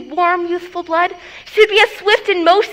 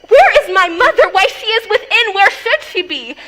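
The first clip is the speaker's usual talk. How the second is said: exasperated; 3 semitones higher, 5 dB louder than usual. Acted. Juliet exasperated at the question.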